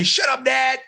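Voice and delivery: a touch of a shout, talking back; mild mock yell. A kid yelling back at his dad, mild mock yell. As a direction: snap it like a kid mouthing off. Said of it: "yell and say".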